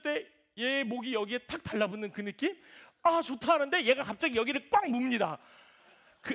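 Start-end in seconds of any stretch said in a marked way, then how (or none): 3.0-3.5 delighted sigh. Retold or imitated. Hugging daughter, enjoying it.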